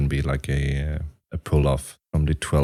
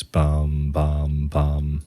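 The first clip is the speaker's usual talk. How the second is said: vocal bass hits; much slower than usual. Shown as a demonstration. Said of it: "have that as a basis".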